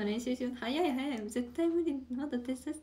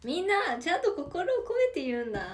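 firm instruction; 5 semitones higher, 4 dB louder than usual. Real, not acted.

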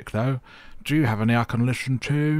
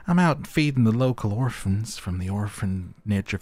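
put-on Southern belle accent. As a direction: play a folksy Southern chef. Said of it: "the local chef in Southern Belle".

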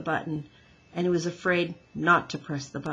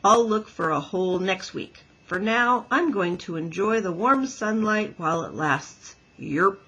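croaking frog; 4 dB louder than usual. Acted. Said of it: "croaked the first frog".

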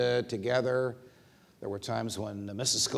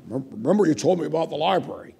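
fast, a bit louder and higher; hurried Scalia; 5 semitones higher, 7 dB louder, faster than usual. Retold or imitated. Scalia on the phone to the judge, fast and eager. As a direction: rush into the confession.

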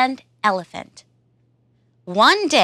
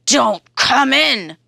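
monster voice; 3 semitones higher, 4 dB louder than usual. Acted. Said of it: "says the monster".

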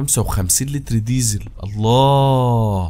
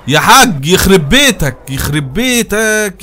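high, loud and drawn-out shout at the driver; exasperated yell; 8 semitones higher, 7 dB louder, much slower than usual. Real, not acted. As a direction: yell in disbelief, slowly. Yelling at crashing AI driver. (صراخ غاضب عالي وبطيء)

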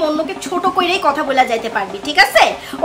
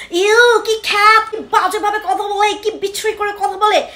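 mocking, slow and higher disdainful sneer; snobbish disgust; 4 semitones higher than usual. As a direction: imitate a snob wrinkling her nose. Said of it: "এরকম third class attitude দেখায়". (নাক সিটকানো ব্যঙ্গ)

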